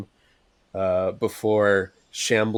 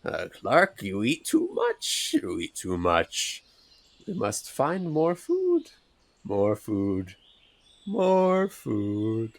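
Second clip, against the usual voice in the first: wag a finger at him while you say it; scolding; slower than usual. Acted. Bruce scolding Clark over the food, slow and chiding. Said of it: "kinda scoldingly".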